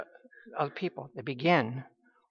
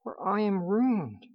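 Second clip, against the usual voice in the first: mild lament; 3 semitones higher, slower than usual. Retold or imitated. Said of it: "he cries out".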